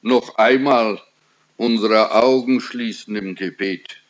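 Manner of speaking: low, measured praying voice; prayer. Real, not acted. Preacher leads the congregation in prayer before the reading, praying.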